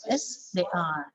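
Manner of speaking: final "are" in its full form, falling; strong ARE. Shown as a demonstration. Teacher answers the example question, strong ARE. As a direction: stress "are" at the end. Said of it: "become strong because it is at the end".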